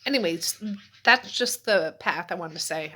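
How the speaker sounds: slurring words, tongue not working; slurred speech. Real, not acted. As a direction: talk as if your tongue is thick and clumsy. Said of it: "I know I'm talking like I'm slurring".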